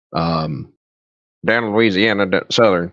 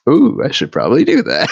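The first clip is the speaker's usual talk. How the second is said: retold realisation; 5 semitones higher than usual.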